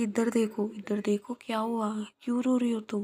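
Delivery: a caring friend asking why she cries; worried tender asking. Acted. Viya lifts Tanu's chin.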